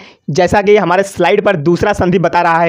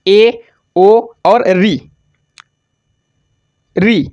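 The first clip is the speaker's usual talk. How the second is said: slow drilled list; much slower than usual. Shown as a demonstration. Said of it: "teacher stresses the vowel list".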